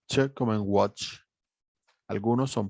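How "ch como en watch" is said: "Ch" sounded as in "watch"; teacher modelling "Ch" before the example word; consonant demo. Shown as a demonstration. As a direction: demonstrate the tch sound of "watch". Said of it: "vamos a tener sonidos de consonantes".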